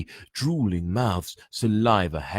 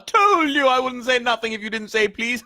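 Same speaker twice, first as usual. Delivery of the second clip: high, loud, sneering poltergeist taunt; high squeaky mischief-maker mocking first-years; 7 dB louder than usual. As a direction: tease them like a gleeful spirit. Peeves voiced in story.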